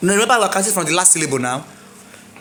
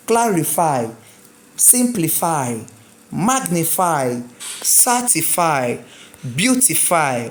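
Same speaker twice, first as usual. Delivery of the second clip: slow drill, punch each first syllable; third-to-last stress; 2 semitones lower than usual. Shown as a demonstration. Teacher leading read after me, first syllables stressed. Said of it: "Read after me".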